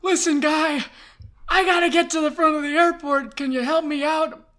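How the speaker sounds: loud, high desperate plea; frantic urgency. Retold or imitated. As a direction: plead for help while running late. Retold frantic plea for directions.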